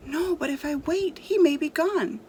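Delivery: put-on a light boy voice, anxious; pleading boy. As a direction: beg like an impatient boy.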